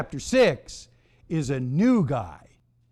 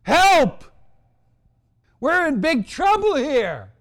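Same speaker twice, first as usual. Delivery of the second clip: high, mock-panicked yell; great distress; 9 semitones higher, 3 dB louder, slower than usual. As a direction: yelp for help in hammed-up alarm. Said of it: "term of great distress".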